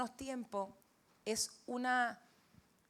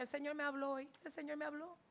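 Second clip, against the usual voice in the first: mock-tearful, higher and trailing softer; imitated tearful voice; 5 semitones higher, 4 dB quieter than usual. Father tells daughter the Lord spoke to him, lightly tearful. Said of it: "me decía llorando".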